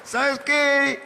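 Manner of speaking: put-on drunk boyfriend. Drunk declaring love.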